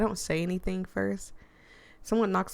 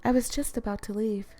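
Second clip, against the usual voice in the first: higher, smooth character voice; smooth, mellow Nari; 4 semitones higher than usual. Acted. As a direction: voice her smoothly, pitched up. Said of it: "a smooth, mellow-toned voice".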